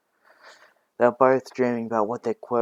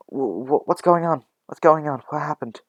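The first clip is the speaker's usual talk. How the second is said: stammering, raised-pitch flurry of questions; higher, louder startled concern; alarmed questioning; 5 semitones higher, 3 dB louder than usual. Acted. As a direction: rush in alarmed, demanding answers. Other caregivers rush around her.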